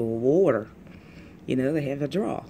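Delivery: water drawn out in a Texas drawl. Shown as a demonstration. Teacher contrasting regional dialects, drawled Texas water. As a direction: stretch water like a Texan. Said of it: "In Texas, they got draws".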